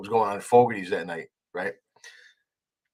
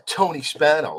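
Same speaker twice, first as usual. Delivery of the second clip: "Tony Spano" announced with weight; "Tony Spano" lightly mocked with self-important emphasis; imitated emphasis; 3 semitones higher, 4 dB louder, slower than usual. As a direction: mimic him stressing "Tony Spano" like it means something. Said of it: "he said it with such emphasis".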